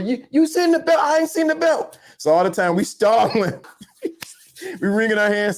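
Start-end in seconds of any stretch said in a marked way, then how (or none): 0.0-2.0 high, feigned-innocent asking; much higher voice playing dumb; mock innocent dad. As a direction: pretend he can't find the belt. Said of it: "he asked my mother".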